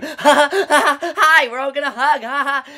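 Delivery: overjoyed dad, giggling; hammed-up happy dad. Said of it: "this is literally how he greets his daughter".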